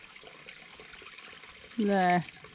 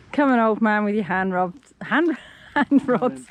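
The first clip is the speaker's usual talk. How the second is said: teasing; 5 dB louder than usual. Real, not acted. Teasing him on the climb.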